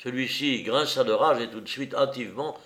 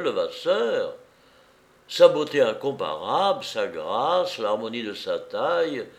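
calm courtesy. Acted. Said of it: "ne se départait pas de son calme et de sa courtoisie".

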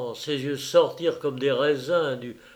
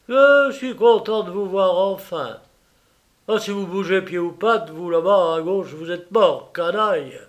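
loud, raised voice aimed at a burglar; shouted threat; 5 semitones higher, 7 dB louder than usual. Acted. Millionaire shouts at Raffles, loud and threatening. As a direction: bark it out, gun in hand. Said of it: "hurla-t-il à Raffles".

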